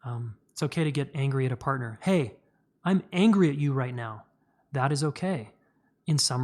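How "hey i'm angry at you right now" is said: firm, raised and louder, owning the anger. Shown as a demonstration. To a partner, showing healthy anger: firm and louder. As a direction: say it firmly and loudly, like you mean it. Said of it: "to raise our voice and get firm".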